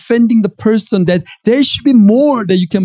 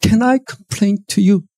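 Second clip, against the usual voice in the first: earnest prayer; 4 semitones higher than usual. Acted. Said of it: "they bring the issues and saying".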